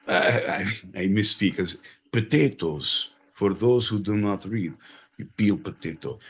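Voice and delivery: mock Russian accent. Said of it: "we're gonna do accents".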